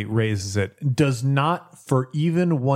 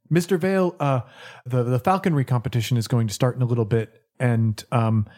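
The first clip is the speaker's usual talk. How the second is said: lightly voiced timid butler; hint of a nervous skeletal servant; creepy butler; faster than usual. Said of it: "A spooky butler timidly".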